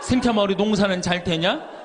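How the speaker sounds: same question again, laughing through it; laughing repeat. Retold or imitated. Priest laughs as he repeats the classmate's call from Rome. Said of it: "다음 달에 또 전화해".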